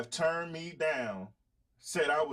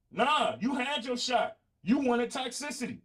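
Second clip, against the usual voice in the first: dismissive; 6 semitones higher than usual. Real, not acted. Brushing off ex-suitors.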